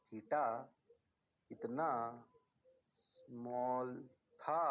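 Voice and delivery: very slow, one word at a time, long pauses; dramatic slow delivery. Acted. Teacher to class, stretching each word slowly. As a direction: spell it out word by word for effect.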